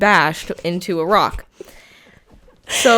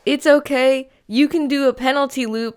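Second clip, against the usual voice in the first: higher, louder mock reassurance turning into a laughing jab; teasing coach; 6 semitones higher, 6 dB louder than usual. Coach retelling her own teasing to the racer, laughing. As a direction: comfort her, then twist the knife with a laugh. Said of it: "I said".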